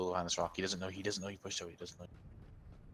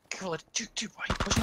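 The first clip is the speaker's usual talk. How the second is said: higher, louder alarmed warning; alarmed shout; 12 semitones higher, 5 dB louder than usual. Real, not acted. Teammate pushing into danger.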